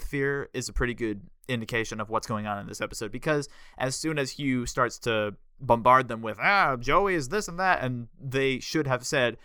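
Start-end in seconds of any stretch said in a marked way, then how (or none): 6.4-7.8 mock taunting. Mocking Hugh's taunts.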